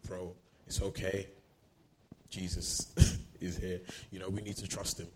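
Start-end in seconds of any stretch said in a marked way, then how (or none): 0.1-3.8 soft, understated reassurance; gentle encouragement. Acted. Believer pointing a mourning brother to Jesus, gentle encouragement. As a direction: quietly comfort a grieving friend. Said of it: "and encourage them and say".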